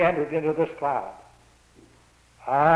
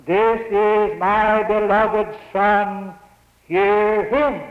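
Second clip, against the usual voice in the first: voice from heaven; 3 semitones higher, 4 dB louder, much slower than usual. Acted. Voice from the cloud, quoted.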